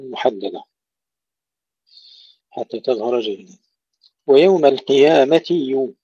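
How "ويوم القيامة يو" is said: ويوم القيامة يو louder, clear "ti" then "yu"; kasra then damma. Shown as a demonstration. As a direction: move distinctly from ti to yu in القيامة يو. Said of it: "كسر التاء ثم ضم الياء". (ويوم القيامة يو بكسر التاء وضم الياء)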